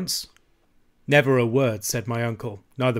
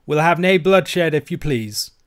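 high, slow, loud plea easing off; drawn-out anxious Scots wail; 5 semitones higher, 7 dB louder than usual. A narrator's reading. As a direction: plead as the frightened old uncle. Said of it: "wailed my uncle".

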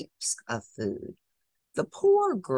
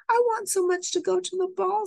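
longing plea; 4 dB louder, faster than usual. Acted. Cinderella pleading while crying.

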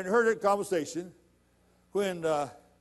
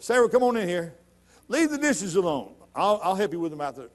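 calling out; 3 semitones higher, 4 dB louder than usual. Acted. Abraham calls wife from kitchen.

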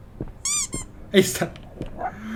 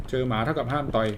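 much softer, to himself; quiet repeat; 6 semitones lower, 11 dB quieter than usual. Shown as a demonstration. Repeating the dog rule to himself, much softer. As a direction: mutter the rule again under his breath. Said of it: "เจอหมาเท่ากับห้ามต่อย ให้วิ่ง".

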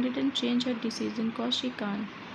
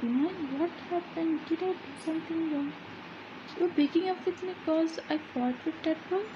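put-on higher, hurt young man begging his girlfriend; a lightly voiced singer asking what he did wrong, pitched up; pleading boyfriend; 6 semitones higher than usual.

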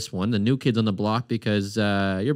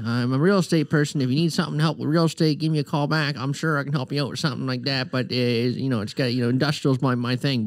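higher put-on Nova Scotia voicemail greeting; Nova Scotia accent; 4 semitones higher than usual. Co-host spoofing James's voicemail, put-on Nova Scotia accent. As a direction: play a local realtor's greeting in broad Nova Scotia accent. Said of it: "Can you do a Nova Scotia accent".

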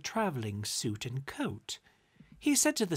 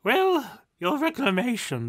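high, loud snapping retort; spat out; 9 semitones higher, 8 dB louder than usual. A narrator's reading. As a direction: spit it out at him. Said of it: "the spirit spat out".

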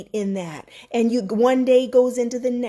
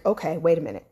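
higher, hushed scared voice; retold fear; 4 semitones higher than usual. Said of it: "I'm like".

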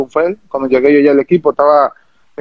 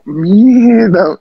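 a higher, louder startled curse; stunned exclamation; 5 semitones higher, 3 dB louder than usual. Retold or imitated. Player recalling his call-up, shocked outburst. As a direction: blurt it out in shock. Hearing he's called up.

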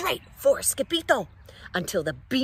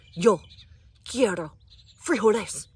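somber voice; 2 semitones higher, 6 dB louder than usual. Acted. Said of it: "in his most somber voice declared".

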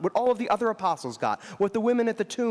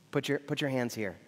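soft and lower, near a hushed murmur; tender invitation; 5 semitones lower, 7 dB quieter than usual. Retold or imitated. Jesus inviting doubting Thomas to touch, hushed and tender. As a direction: invite him in gently, barely above a hush. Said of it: "you can just hear the smile in his eyes".

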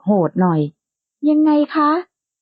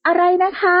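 higher startled cry of disbelief; shocked exclamation; 6 semitones higher than usual. A narrator's reading. Startled friend reacts to a wild idea, shocked. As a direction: gasp it out in shock. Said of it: "อุทานออกมาด้วยความตกใจ".

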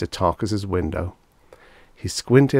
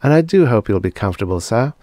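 soft low voice; 3 semitones higher, 5 dB louder, faster than usual. Acted. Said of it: "in a soft, low voice".

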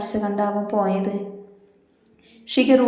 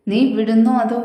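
louder, threatening warning; angry shout; 5 dB louder than usual. Acted. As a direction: bark it as a final warning. Kannan warns Shivani to let go.

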